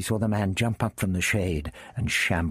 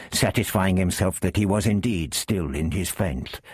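ordinary delivery

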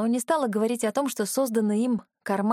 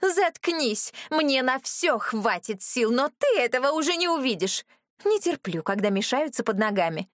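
furious; 5 semitones higher than usual. Acted. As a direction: cut her off in rage. Брюнетка в ярости. (гневно оборвать, выше и громче)

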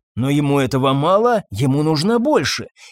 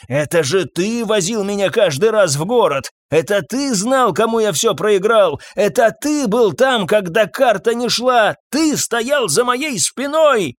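furious accusation; 6 semitones higher than usual. Acted. Old master grabbing the groom, furious accusation. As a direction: pile up the blame in rage.

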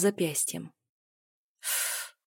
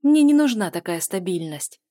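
sharp retort, louder; snapping back; 7 dB louder than usual. A narrator's reading. Heroine snapping at her lover, sharp retort. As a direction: snap the line at him. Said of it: "огрызнулась я".

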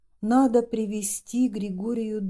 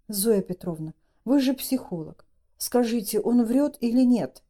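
nervous; 3 semitones higher than usual. Acted. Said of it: "нервно спросила Маша".

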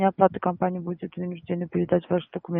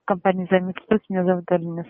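louder, repeating clearly; to someone hard of hearing; 5 dB louder than usual. Real, not acted. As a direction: speak up so they can hear. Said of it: "Говорите громче, почти не слышу вас".

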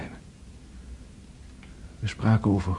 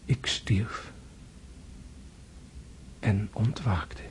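awed whisper; 8 dB quieter, slower than usual. Acted. André telling dream of death.

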